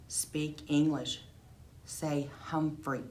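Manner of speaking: slow coaching. Acted. Coaching mom slowly.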